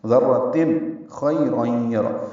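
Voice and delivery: ذرتن خیرا یرا drawn out very slowly, each sound held; tajweed demo. Shown as a demonstration. Teacher models the phrase slowly for students. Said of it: "خی ایدین نرمی سے پڑھیں گے".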